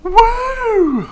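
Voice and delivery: sudden high hiccup yelp; a hiccup jumps out. Real, not acted. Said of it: "I've got the hiccups".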